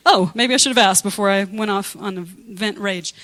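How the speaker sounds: laughing. Real, not acted.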